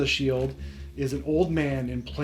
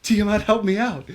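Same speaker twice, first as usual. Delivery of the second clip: taunting villain voice; 7 semitones higher, 6 dB louder than usual. Acted. Freed prisoner taunting the party.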